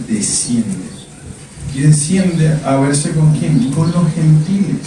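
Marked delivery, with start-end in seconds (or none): 0.1-0.9 God's command. Acted. God telling Pedro to descend.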